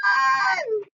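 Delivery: very high shout to run; shouted warning. A narrator's reading. Chick shouting at everyone to flee. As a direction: yell it out in panic.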